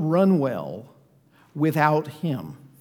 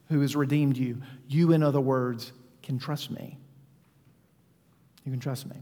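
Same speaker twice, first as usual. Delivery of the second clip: gentle reassuring God; 4 semitones lower than usual. Shown as a demonstration. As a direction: speak as a patient, loving God. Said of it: "Feel how different that is?".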